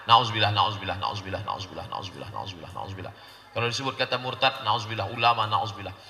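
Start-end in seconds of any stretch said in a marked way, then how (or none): 0.1-3.1 trailing away, lower and softer each time; fading repetition. Acted. Preacher fades repeated nauzubillah, quieter. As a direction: let nauzubillah die away.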